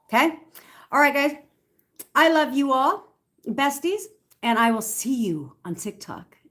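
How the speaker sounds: high, loud, bubbly goodbye; excited sign-off. Real, not acted. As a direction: gush a goodbye to the fans.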